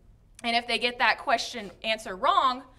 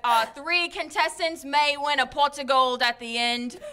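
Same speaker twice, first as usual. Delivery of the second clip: mock Irish accent. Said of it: "getting a little Scottish".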